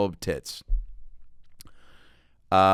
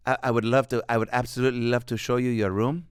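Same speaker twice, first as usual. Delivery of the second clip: hotel greeter. Retold or imitated. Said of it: "The woman who sh-, welcomed us".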